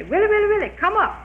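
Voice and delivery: high, loud sing-song echo; teasing echo of the witch's call; man mocking back from the tree. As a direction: throw her chant back up at her.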